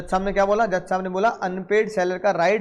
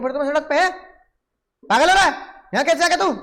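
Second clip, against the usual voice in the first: angry seller; 2 semitones higher than usual. Retold or imitated. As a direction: rant till you snap at the buyer. तू गुस्सा कह रहा है. (गुस्से में चिल्लाता विक्रेता, धीरे धीरे तेज़)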